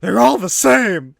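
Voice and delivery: hammed-up sore yell; bitter outburst. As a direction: slam it like a bitter loser. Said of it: "Eddie's like".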